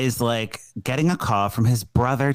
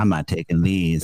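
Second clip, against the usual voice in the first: grim refusal; 7 semitones lower than usual. Retold or imitated. Prince voiced refusing pills.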